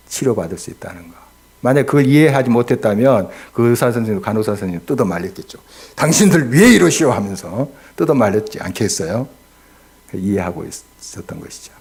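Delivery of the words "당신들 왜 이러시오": mock angry protest. Father stopping doctors in retold scene.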